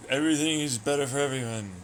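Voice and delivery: high giddy celebration, woohoo and yay; cheery cartoon voice. Silly cheering character bit.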